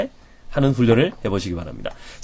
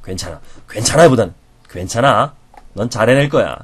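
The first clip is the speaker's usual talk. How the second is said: gentle reassurance. Shown as a demonstration. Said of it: "가볍게 흔드는 겁니다".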